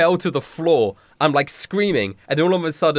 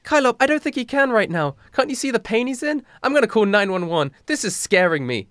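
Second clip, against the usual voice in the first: higher-pitched, hammed-up worry; acted worried voice; 7 semitones higher than usual. Mackenzie frets over Daniel, in a worried voice. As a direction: plead anxiously in a put-on high voice. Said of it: "Mackenzie says in a worried voice".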